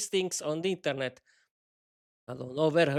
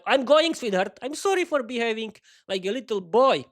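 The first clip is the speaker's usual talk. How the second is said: apologetic husband; 5 semitones higher than usual. Acted.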